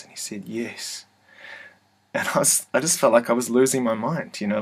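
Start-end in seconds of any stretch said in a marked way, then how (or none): 0.5-1.0 sweetest voice. Retold or imitated. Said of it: "it was the sweetest voice".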